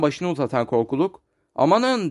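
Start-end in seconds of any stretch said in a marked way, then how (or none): 1.5-2.1 high exclamation of amazement; astonished cry. A narrator's reading. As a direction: gasp it out in wonder. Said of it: "diye bağırdı". (şaşkınlıkla yüksek sesle haykırış)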